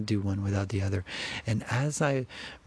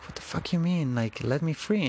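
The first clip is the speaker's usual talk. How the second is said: incredulous; 7 semitones higher than usual. Retold or imitated. Retold disbelief at gorilla.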